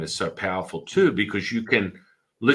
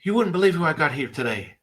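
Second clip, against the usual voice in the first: higher-pitched excited talk-show host; imitating a gushing TV host; Oprah; 6 semitones higher than usual. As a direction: tease a big guest to the studio audience. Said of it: "she had a talk show and she's like".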